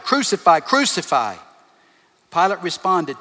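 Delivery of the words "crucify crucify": mock crowd shout, slightly raised; imitated shout, punched then falling; retold shouting. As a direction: call it out like a chanting mob, half-strength. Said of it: "they shouted".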